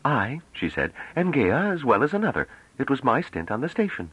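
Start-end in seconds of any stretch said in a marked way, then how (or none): 0.0-0.4 high, commanding self-introduction; in charge. A narrator's reading. Young envoy draws herself up, in charge. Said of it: "she had the bearing of one in charge". 1.2-4.1 put-on high, assertive young woman; in charge. A narrator's reading. Young envoy answers doubters, in charge. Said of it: "she had the bearing of one in charge".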